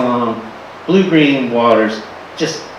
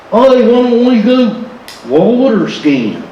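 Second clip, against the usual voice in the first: put-on excited teens; 7 semitones higher than usual. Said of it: "me and the boys".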